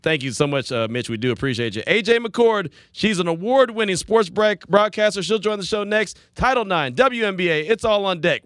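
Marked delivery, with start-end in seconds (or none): 1.9-8.4 higher-pitched radio host tease; radio promo tease. Acted. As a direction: sell the upcoming segment like an announcer. Radio host teases next segment.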